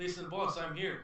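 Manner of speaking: loud in-character shout. Shouting to the boss as a character bursting in: yelling at the top of lungs. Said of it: "I'm yelling at the top of my lungs".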